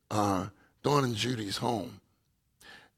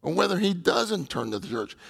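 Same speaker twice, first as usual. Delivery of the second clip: higher-pitched, urgent retold plea; desperate pleading; 5 semitones higher than usual. Praying brother urges the others for a new one, mildly desperate. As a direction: imitate a brother earnestly pleading for a newcomer. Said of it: "even in a desperate way".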